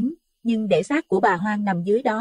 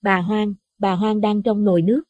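higher, frightened woman's voice; trembling terror; 7 semitones higher than usual. A narrator's reading. Wife to husband pointing at the pot, frightened higher voice. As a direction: stammer out what she saw. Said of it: "Bà run rẩy".

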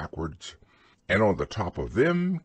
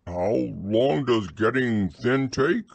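anxious; 3 dB louder, slower than usual. Acted. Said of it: "asked Pooh anxiously".

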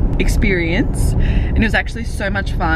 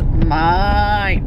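mild imitation of the Aussie "Mate", long falling vowel; lightly copying the broad Aussie "Mate"; 3 semitones lower, 3 dB louder than usual. Copying the Noosa man's "Mate" all week, drawn out. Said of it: "all I could say all week was".

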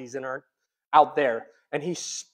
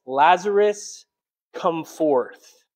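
slow, slightly raised command, falling away at the end; mild loud cry; 4 dB louder, much slower than usual. Retold or imitated. Preacher voicing Jesus calling Lazarus from the tomb, mildly loud cry. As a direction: call it out slowly, a measured summons. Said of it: "cried out in a loud voice".

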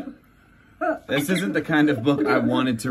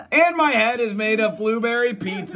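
laughing through silly line; 6 semitones higher than usual. Acted.

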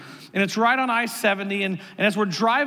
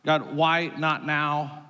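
slow, lower-pitched plea to God; mildly exasperated, drawn-out appeal; frustrated prayer; 4 semitones lower, much slower than usual. Retold or imitated. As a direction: question God with understated frustration. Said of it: "we're frustrated of".

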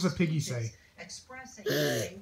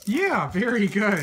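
excited praise; 2 semitones higher, slower than usual. Real, not acted. Praising toddler.

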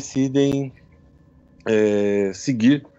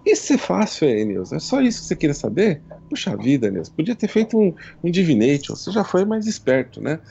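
playful goddess voice; 3 semitones higher than usual. Acted. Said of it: "Falei assim".

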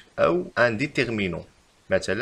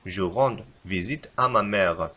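slow repeat of the correction; 2 semitones lower, much slower than usual. Shown as a demonstration. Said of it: "بل نكتب".

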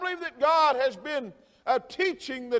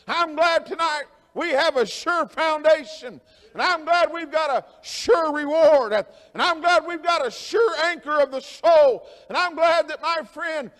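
rising into a ringing, shouted preaching cadence; building preacher's climax. Acted. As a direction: Baptist preacher hitting his stride, full voice.

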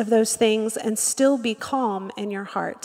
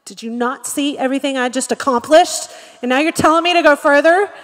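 puffed-up indignation; 2 semitones higher, 4 dB louder than usual. Acted. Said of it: "We can get so puffed up".

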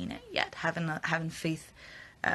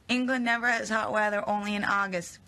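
loud, higher-pitched mock yell, easing off; big emphatic readout that settles down; all-caps reading; 4 semitones higher, 4 dB louder than usual. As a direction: read it out as if typed in capitals. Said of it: "In all caps".

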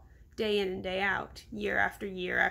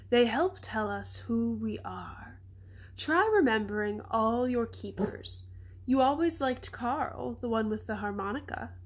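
put-on wise old elephant. Stella's held slow elephant voice.

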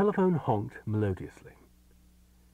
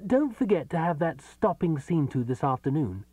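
hopeless; 7 semitones higher, 3 dB louder than usual. A narrator's reading. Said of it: "he added hopelessly".

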